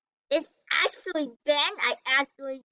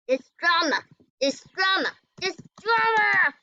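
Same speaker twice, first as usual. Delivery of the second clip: building drama; 6 semitones higher, 4 dB louder than usual. Real, not acted. Mock dramatic repetition.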